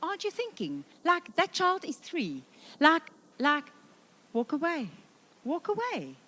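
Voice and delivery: high, alarmed mom voice. Retold or imitated. Mom panicking as dad takes child down slide, high and alarmed. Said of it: "and you're like".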